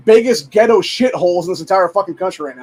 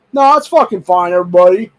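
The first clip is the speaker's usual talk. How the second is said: sarcastic mock reassurance; 3 semitones higher, 8 dB louder than usual. Real, not acted. Mocking the double standard to viewers, sarcastic sneer. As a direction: sneer it as if everyone claims it's fine.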